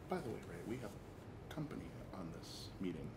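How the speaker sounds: very quiet, hushed, rapid delivery. Leaning in to a companion during a meeting, speaking quietly, leaning in. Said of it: "like quietly lean into Ray and be like".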